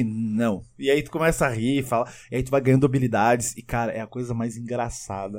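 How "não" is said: lower, softer deadpan no; mildly cold, low refusal; cool refusal. Retold or imitated. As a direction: turn them down quietly. Acted cool refusal to helper.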